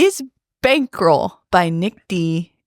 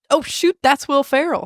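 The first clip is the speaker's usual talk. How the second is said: higher, mock-surprised exclamation; imitated startled recognition; 6 semitones higher than usual. Drivers spotting the actor in the street, imitated surprise. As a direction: blurt it like a passerby spotting a star. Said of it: "they were like".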